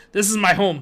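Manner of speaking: angrily. Acted. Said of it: "the man said angrily".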